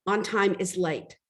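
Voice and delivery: slow and firm, each word weighed; firm manager statement. Retold or imitated. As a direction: lay down the rule calmly like a strict boss. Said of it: "And she said".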